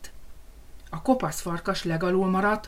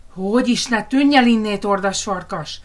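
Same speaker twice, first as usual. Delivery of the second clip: defiant pigs; 3 semitones higher, 7 dB louder than usual. Acted. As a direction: send the wolf packing. Pigs shout the wolf away. (dacos, hangos malacok)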